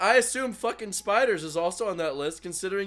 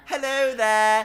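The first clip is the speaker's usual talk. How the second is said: mock polite greeting; 6 semitones higher, much slower than usual. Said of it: "all of Australia sounded like Brooklyn".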